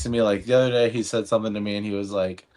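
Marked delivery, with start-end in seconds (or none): none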